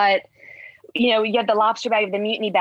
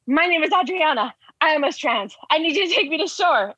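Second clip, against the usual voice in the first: higher, breathless retelling of a frantic plea; retold panicked plea; 7 semitones higher than usual. To a stranger in the water, asking for shore, retold panicked plea. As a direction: replay the desperate ask to a stranger, pitched up.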